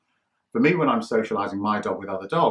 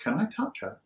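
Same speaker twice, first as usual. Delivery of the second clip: cooing stranger; 7 semitones higher, 6 dB quieter than usual. Retold or imitated. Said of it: "and said".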